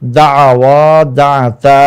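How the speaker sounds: slow, deliberate Arabic recital; careful slow reading. Shown as a demonstration. Teacher reading Arabic verb forms slowly for students. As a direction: spell each form out carefully for students. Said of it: "মনোযোগ সহকারে ভালোভাবে পড়ব".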